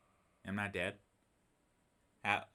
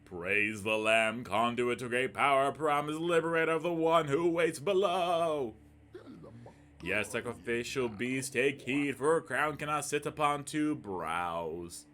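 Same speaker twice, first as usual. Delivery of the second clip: solemn cult voice; 3 dB louder than usual. Acted. Streamer reading the game's prophet, grand and solemn. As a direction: intone it like a dark prophet. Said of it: "I don't know why I'm talking like this".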